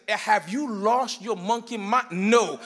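loud emphatic refusals, slow and heavy; hard no. Shown as a demonstration. Preacher to congregation, demonstrating a street-style hard no, loud. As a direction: slam the door with every no. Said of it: "give a hard no".

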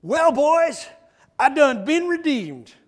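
loud, high Southern hillbilly proclamation; hammed-up Southern accent, pitched high; movie Southern accent. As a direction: imitate Delmar's jubilant Southern drawl, loudly. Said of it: "I'm trying to do the accent properly".

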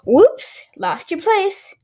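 mock exclaiming. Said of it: "she exclaimed".

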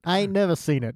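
a bad Boston accent, slipping toward Chicago. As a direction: ham up a Boston tough guy, badly. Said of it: "I forgot what accent I'm doing".

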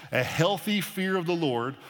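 healthy slowed and set apart; stress on healthy. Shown as a demonstration. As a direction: lean on the word healthy, give it weight. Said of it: "I want to emphasize the word healthy".

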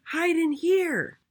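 high, drawn-out piglet call; squeaky, urgent pig; urgent pig cry. A narrator's reading. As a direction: call your brothers urgently to shelter. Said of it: "cried the third little pig".

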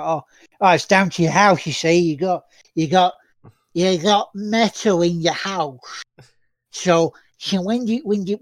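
slurred, drawn-out Geordie parody; comic Geordie accent; parodied Geordie accent. Acted. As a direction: do a broad Geordie take-off, dragging the words. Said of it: "He's speaking Geordie".

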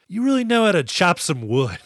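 hammed-up retold compliment; mock impressed. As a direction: act impressed, on the edge of laughing. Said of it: "he's impressed by the way".

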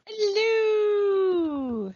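high, drawn-out Canadian greeting; Canadian accent. Acted. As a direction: say it with a Canadian lilt, eh. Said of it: "talk with my Canadian accent".

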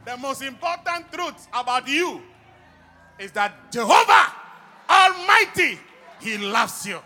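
loud, high, fervent call to praise; preaching at full force. Acted. Preacher leading the congregation in praise, full-force preaching. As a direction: rouse the church, shout it out.

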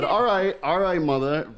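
mock retort. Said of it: "And I said".

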